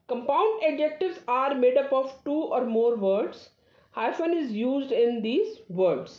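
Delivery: slow, careful reading of a rule; slow dictation. Acted. Teacher dictating a grammar rule to students, slow and careful. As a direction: read the rule slowly so students can copy it. Reads rule aloud slowly.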